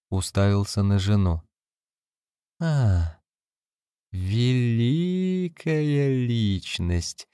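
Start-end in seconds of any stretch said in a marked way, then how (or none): 2.6-7.3 slow, drawn-out sneer, slower than before; repeated more slowly. A narrator's reading. Wife repeats the words slowly to her husband, drawn out. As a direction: stretch the words out deliberately. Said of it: "повторила она уже медленнее".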